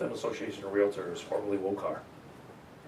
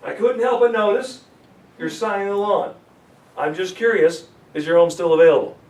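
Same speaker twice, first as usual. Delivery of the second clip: easy door opener; 6 semitones higher, 10 dB louder than usual. Shown as a demonstration. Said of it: "I'll do it a third time".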